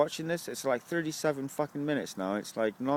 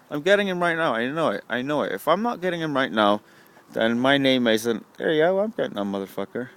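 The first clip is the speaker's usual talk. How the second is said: loud, psyched-up hollering; real excited yelling while going for the kill; excited shouting; 10 dB louder than usual. Real, not acted. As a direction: yell it, pumped for the shot. Hyped, chasing a shot.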